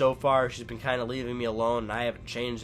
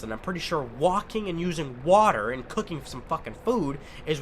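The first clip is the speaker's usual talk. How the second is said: mock yell, heated and insistent; indignant rant, short of a real scream; retold screaming rant; 3 semitones higher than usual. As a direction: retell your furious argument with rising exasperation. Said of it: "like, screaming at her".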